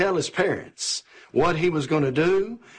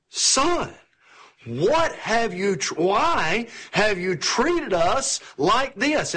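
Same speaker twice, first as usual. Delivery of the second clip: demanding mother; 4 semitones higher, slower than usual. Retold or imitated. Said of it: "she kind of demands an answer".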